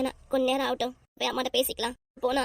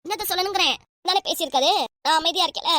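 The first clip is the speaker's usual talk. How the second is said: raised, higher-pitched angry retort; indignant protest; 3 semitones higher, 3 dB louder than usual. Acted. Wife answering her angry husband's threats, indignant. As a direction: argue back, voice lifting in indignation. Wife argues back in quarrel.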